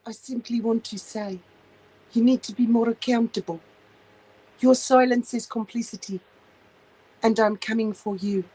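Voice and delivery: a light mock of a prim, preachy woman; mocking the crazy lady. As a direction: lightly imitate a pompous scold. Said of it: "That's the type of shit".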